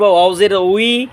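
"ওয়াও জের উই" slowly with rounded lips; rounded-lip WAW. Shown as a demonstration. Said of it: "ঠোঁট গোল করিয়া পড়ব".

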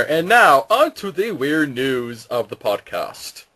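lightly voiced news anchor; a hint of anchorman delivery; newscaster voice. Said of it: "I'm speaking like a newscaster".

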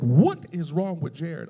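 slow, measured mock reproach; lightly voiced church mother questioning someone; imitated reproach. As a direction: ask it slowly, stressing each word, as a retold scolding. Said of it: "she said".

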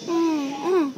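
mild mock baby cry; small pretend fussing bleats. A narrator's reading. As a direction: imitate a baby starting to cry. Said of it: "Ella was crying".

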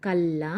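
"కల్లా" with a long, held L; doubled L sound. Shown as a demonstration. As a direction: read "కల్లా" with la, holding the double L. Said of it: "లా అనే pronunciation వస్తుందన్నమాట".

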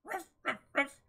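dog barks. Acted.

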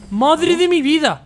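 slow, loud, high cry of disbelief; drawn-out exclamation. Real, not acted. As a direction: stretch it out in relieved amazement. Finally beats hard level.

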